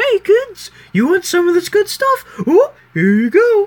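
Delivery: squeaked out, high-pitched and loud. Redoing an impersonation after a bad first try to get the voice right, Mickey Mouse as a drug dealer. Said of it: "My impersonation will be Mickey Mouse as a drug dealer".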